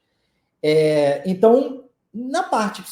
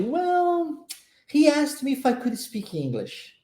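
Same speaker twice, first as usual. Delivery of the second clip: friend answering; 5 semitones higher, slower than usual. Retold or imitated. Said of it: "o amigo responde".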